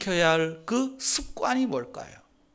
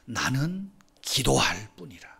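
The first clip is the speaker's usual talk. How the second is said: slow whispered verse; 6 semitones lower, 5 dB quieter than usual. Acted. Preacher reading the psalm to the congregation in a whisper. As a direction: read it slow and hushed.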